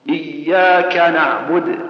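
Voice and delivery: slow recited إياك نعبد, the K pressed firmly; press, then aspirate. Shown as a demonstration. Teacher showing correct recitation, pressed then aspirated kaf. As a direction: recite إياك نعبد slowly with a firm K, light breath. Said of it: "والنطق الصحيح أنك تشد ثم".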